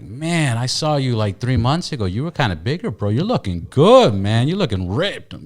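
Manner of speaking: upbeat hyped-up praise for a friend; encouraging compliment. Retold or imitated. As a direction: cheer him on, you're looking good. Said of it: "if I had the same conversation".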